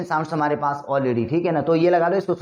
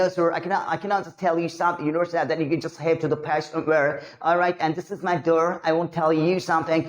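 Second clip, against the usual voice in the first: slow put-on Anglo-American accent; native-English accent imitation; much slower than usual. Shown as a demonstration. Teacher showing students they will sound foreign, put-on English accent. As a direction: imitate a native English speaker, words drawn out. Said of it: "कोई अंग्रेज बोल रहा है".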